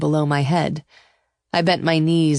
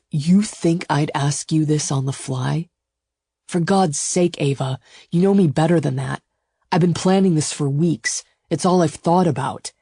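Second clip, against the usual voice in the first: forceful, lightly voiced male lover; exasperated suitor. Suitor defends weeks of planning, exasperated. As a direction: argue your case with exasperation. Gideon's voice.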